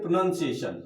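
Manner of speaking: "pronunciation" said slowly with every syllable clear, -nun- not -noun-; correct pronunciation. Shown as a demonstration. Teacher models the right "pronunciation" for students. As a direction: say "pronunciation" as pro-nun-see-ay-shun. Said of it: "हमको बोलना चाहिए".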